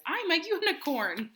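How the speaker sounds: rhino voice. Acted. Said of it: "It's a rhino that says".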